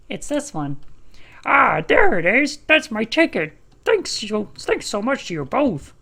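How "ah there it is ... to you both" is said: loud, high, overjoyed; thrilled to get it back; excited. Acted. Passenger finds lost ticket.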